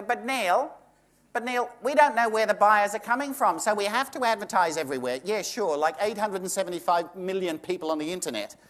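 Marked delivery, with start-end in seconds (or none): 0.0-5.2 mocking agents. Agents' voice mimicked.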